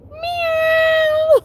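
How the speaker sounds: loud, very high drawn-out meow; playful loud cat impersonation; pretend cat. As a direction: let out a big squealing cat meow. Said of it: "I'd be like".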